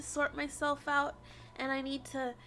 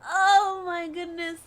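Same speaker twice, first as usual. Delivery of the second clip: choked up; 8 dB louder, slower than usual. Real, not acted. Overcome, starting to cry.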